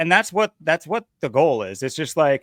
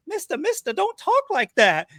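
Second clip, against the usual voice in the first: much higher-pitched mock complainer; whiny busybody scolding. Busybody tugging a stranger's shirt to object, high mock scolding.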